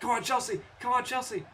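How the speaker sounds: cheering. Real, not acted. Fan cheering on wrestler.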